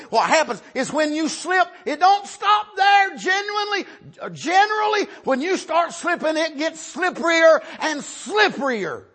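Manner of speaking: high-pitched, urgent pulpit warning; fervent, strained-high sermon delivery; impassioned preaching. Real, not acted. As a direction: preach the warning high, stretching the last words.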